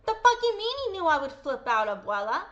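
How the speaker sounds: loud indignant outburst; outraged. Real, not acted. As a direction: let the outrage burst out. Outraged at quoted denial.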